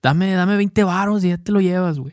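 a mock norteño, drawing out each güey; northern Mexican accent. Friend imitating how norteños talk in the film, northern Mexican accent. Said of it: "se nota claro el acento del norte".

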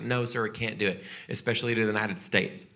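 quick, lightly mocked Southern US accent. Rental agent refusing a customer, quick mock Southern accent. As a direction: imitate a polite Southern refusal. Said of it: "I don't know why they're Southern".

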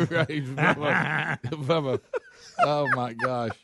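winded from laughing; out of breath. Real, not acted. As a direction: gasp the words, winded. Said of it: "He's out of breath".

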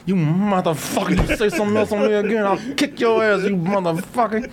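Joe Pesci impression. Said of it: "he turned it like Joe Pesci".

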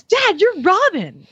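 put-on high, slow little-boy voice; son Lucas. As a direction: imitate a small boy correcting his dad. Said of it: "Lucas goes".

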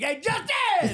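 high, hammed-up hail to a buddy; exaggerated, high-pitched chummy call-out; overconfident greeting. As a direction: call the name out with mock confidence. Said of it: "I started calling him Justin confidently".

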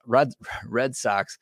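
put-on slow, drawn-out Boston accent. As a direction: say Red Sox like a Boston local. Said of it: "in my Boston accent right there".

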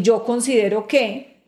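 firm, steady "yo considero que" with weight on yo; forceful phrasing. Shown as a demonstration. Speaker shows the stronger business phrasing, firm. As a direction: say it as the stronger argument. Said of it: "tiene más fuerza el argumento".

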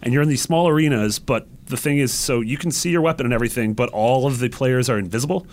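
ordinary talk

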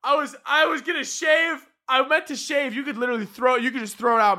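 high, frantic, close to crying; mock panicked pleading to the TSA guy; near-tears panic. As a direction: plead like you're about to break down. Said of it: "I almost started, like, crying".

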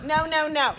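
a hint of a prim cheerleader; mock cheer. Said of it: "our school cheer".

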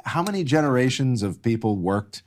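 incredulous. Real, not acted. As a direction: scoff in disbelief. Incredulous rhetorical jab.

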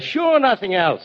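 high, slow, drawn-out NOTHING ELSE; exasperated retort. Acted. Bill answers Drew's question, exasperated and drawn out.

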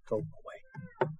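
drawn-out squeak at the cat; high squeaky shoo. Real, not acted. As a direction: coax the cat away, squeaking. Shooing the cat.

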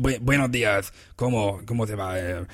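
imitating a restaurant owner's peculiar way of talking; put-on character voice, slipping into rapid Spanish; Pep. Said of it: "he talks like this, but in Spanish accent".

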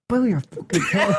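imitating a scolding, laughing. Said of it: "I felt like saying".

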